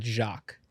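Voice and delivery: Jacques with a soft zh, as one syllable; correct French pronunciation. Shown as a demonstration. Guest gently correcting host on his name, French pronunciation. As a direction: say Jacques softly, French zh and silent s. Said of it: "I hate to do this, but".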